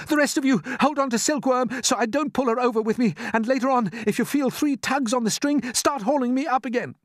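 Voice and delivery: high, loud orders; urgent instructions. Acted. James instructing the others before jumping.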